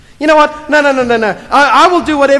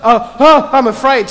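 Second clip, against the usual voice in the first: mock fear; 2 semitones higher, 4 dB louder than usual. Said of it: "not a sudden".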